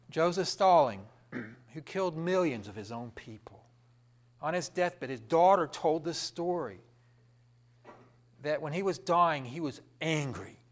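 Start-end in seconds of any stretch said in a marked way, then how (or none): none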